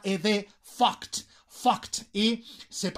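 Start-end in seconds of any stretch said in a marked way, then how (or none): 0.6-2.1 "fucked" ending in a crisp T; final T sounded. Shown as a demonstration. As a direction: say "fucked" with a T at the end. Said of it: "hay que pronunciarlo con una T". ("fucked" con la T final pronunciada)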